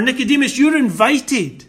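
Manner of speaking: a mock courteous invite; polite invitation. Shown as a demonstration. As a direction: offer it as an invitation. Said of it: "a mere simple statement of request".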